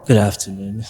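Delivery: composed, even-pitched hello; calm greeting. Real, not acted. Guest returning the host's greeting, calm. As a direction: greet calmly, without any hype. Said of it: "It seems so calm".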